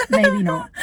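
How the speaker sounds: high, squeaky mock reluctance; mock doubtful squeak. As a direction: pipe it up like a nervous no. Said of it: "I'm like".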